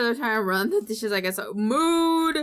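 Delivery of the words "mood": loud and high, full of glee; excited shout. Real, not acted. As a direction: belt it out. Excited exclamation.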